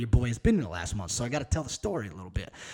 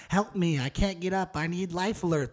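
raised pitch, mock-helpless plea from the old TV ad; Life Alert commercial; 5 semitones higher than usual. Joking about his back pain, quoting the Life Alert ad in a mock-helpless voice. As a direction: ham up the fallen senior crying for help. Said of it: "It was one of those commercials where".

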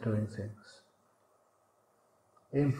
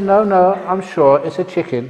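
insistent wife; 5 semitones higher, 8 dB louder than usual. Acted.

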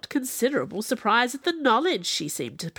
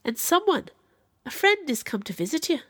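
lifted, higher voice, gentle reassurance; 7 semitones higher than usual. A narrator's reading. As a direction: break the news gently, pitched up. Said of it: "with gentleness".

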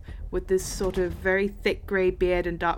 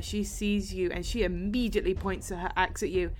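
ordinary delivery

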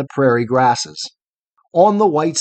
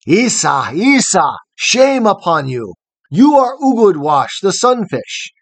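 loud, higher mocking shout; shouting in derision; 5 semitones higher, 3 dB louder than usual. A narrator's reading. Hiawatha deriding the sunfish, loud mocking shout. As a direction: jeer at the sunfish. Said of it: "loud he shouted in derision".

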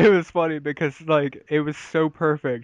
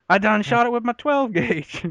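higher mock Southern redneck; hammed-up redneck boast; Southern hick accent; 8 semitones higher than usual. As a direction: play the proud Georgia hick, pitched up. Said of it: "if they did it in, like, Georgia".

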